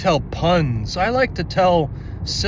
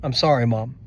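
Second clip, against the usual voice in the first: upset, defeated; 3 semitones lower, 5 dB quieter than usual. Retold or imitated. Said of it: "I'm freaking out and I'm just like".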